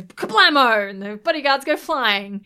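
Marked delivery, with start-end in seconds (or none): 0.0-0.9 explosion sound. Retold or imitated. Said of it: "he goes".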